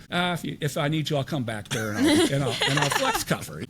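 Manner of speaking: retold joke with a laugh breaking in; joking offer. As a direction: toss it off as a joke, chuckling. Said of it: "And I jokingly said".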